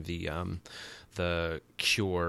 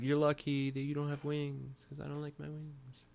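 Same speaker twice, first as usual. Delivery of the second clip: mock Angel; 7 semitones higher, 6 dB quieter than usual. Angel voiced whining about wings.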